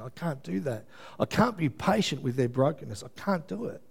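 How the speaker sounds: a worn-out believer begging the Lord for relief; crying out to God. Retold or imitated. Preacher voicing his own cry to the Lord, desperate plea. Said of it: "cried out".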